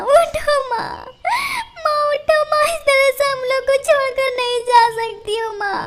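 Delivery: high, tearful pleading broken by sobs. Acted. Girl pleading with her dead mother, tearful sobs. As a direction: beg her to wake up through tears. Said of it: "और रोने लगती है".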